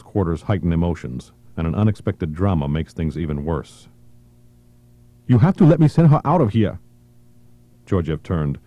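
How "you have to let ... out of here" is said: high, urgent plea; pleading woman. Acted. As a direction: beg to save the girl. Woman pleads for injured girl.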